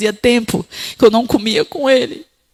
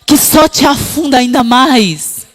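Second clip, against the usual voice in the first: higher, louder impassioned preaching; fiery preaching; 6 semitones higher, 5 dB louder than usual. Acted. Preacher exhorting the women in the congregation, fiery. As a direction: preach to the women with full force.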